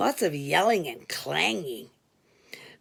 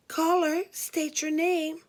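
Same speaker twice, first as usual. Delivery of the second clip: higher, brisk switchboard operator; 8 semitones higher than usual. Retold or imitated. Operator demanding the caller's name in a clipped higher voice. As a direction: recite it like a bored phone operator. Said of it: "the operator asked".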